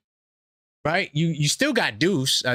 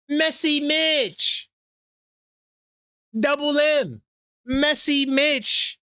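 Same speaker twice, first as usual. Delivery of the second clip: teasing nickname; 10 semitones higher, much slower than usual. Real, not acted.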